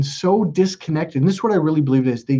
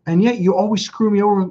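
higher, exasperated complaint; replaying a frustrated rant at his ex; retold anger; 5 semitones higher than usual. Man retelling complaint to his ex, mock exasperated. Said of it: "I got really mad at her".

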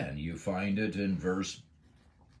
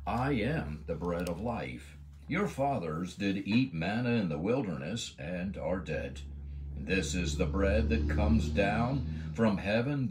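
scripture reading. Acted. Reads Jesus' words from John.

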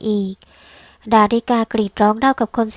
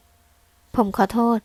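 flat apology; much slower than usual. Acted. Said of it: "คำขอโทษเรียบๆ".

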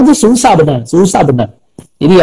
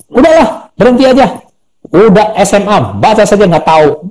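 dismissive teacher; 2 semitones higher than usual. Retold or imitated. Teacher to a pupil who cannot read, mildly scornful. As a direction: imitate a teacher giving up on a pupil. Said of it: "saya masih ingat cara dia ngomong".

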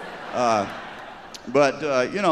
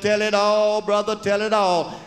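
revival preacher; 8 semitones higher, 4 dB louder, slower than usual. Acted. Preacher urging the confession.

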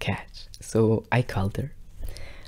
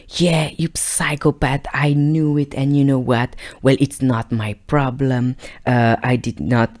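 put-on defiant girlfriend; 4 semitones higher, 4 dB louder than usual. Girlfriend's defiant reply voiced.

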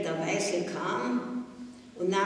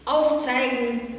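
laut und höher, herrisch befehlend; herrischer Befehl; 6 semitones higher, 6 dB louder, slower than usual. A narrator's reading. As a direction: kommandiere die Klasse scharf herum. Nazi-Mädchen befiehlt der Klasse. (Nazi-Mädchen befiehlt der Klasse, laut und herrisch)

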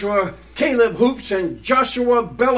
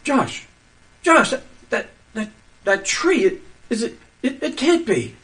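stammering, hushed disbelief; can barely get the words out; stunned fear; 4 dB quieter than usual. Acted. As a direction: partner staring at the tree, frightened and stammering. Stunned at the transformed tree.

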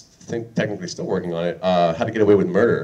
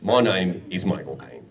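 slow, low Cockney Michael Caine drawl, laughing; second, slower stab at Michael Caine; slow laughing Michael Caine impression; 4 semitones lower than usual. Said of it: "this is my Michael Caine impression".

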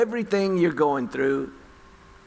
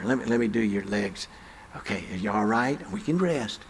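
gentle nurse; 5 semitones lower, 4 dB quieter than usual. Retold or imitated. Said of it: "very gentle".

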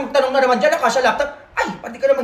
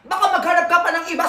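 shouted sales pitch; excited shout; 3 semitones higher than usual. Real, not acted. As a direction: call out to the viewers, hawker style. Product pitch called out.

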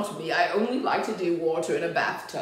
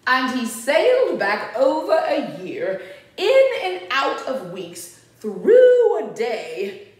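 lively, sing-out story reading; storybook narration; 5 semitones higher, 7 dB louder, slower than usual. A narrator's reading. Reader tells children of Max's room, storybook narration. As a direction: read it to small children, animated.

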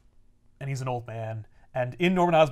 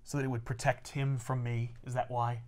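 quiet menace; 4 semitones lower, 10 dB quieter than usual. Retold or imitated. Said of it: "and he's like".

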